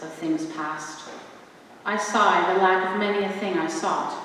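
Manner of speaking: measured sonnet recitation with long pauses between lines; poetry reading. Acted. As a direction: read each line like a sonnet before an audience. Reads Shakespeare sonnets aloud.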